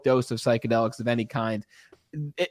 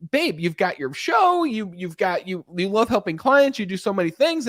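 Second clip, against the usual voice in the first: wife reassuring him; 5 semitones higher than usual. Retold or imitated. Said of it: "she's like".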